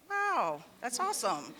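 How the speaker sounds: high, laughing burst of pride; delighted wow. Retold or imitated. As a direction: gush about a grown daughter. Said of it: "which I'm like".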